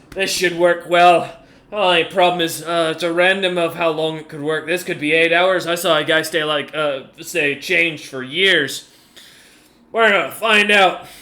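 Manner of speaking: a hint of a hearty commander; lightly voiced enlarged commander. Game master plays the enlarged commander.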